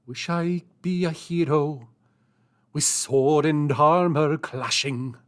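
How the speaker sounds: sung in a mock Scottish accent, hammed-up; bad Scottish accent. Singing on stream in a jokey Scottish accent. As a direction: belt it like a Shrek sea shanty, badly. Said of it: "my Scottish accent sucks really bad".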